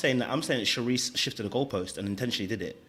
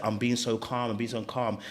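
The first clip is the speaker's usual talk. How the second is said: feigned calm; 2 semitones lower, 4 dB quieter than usual. Acted. Mocking someone pretending to be calm, evenly. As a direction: put on a composed, quieter voice. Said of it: "you can't pretend to say".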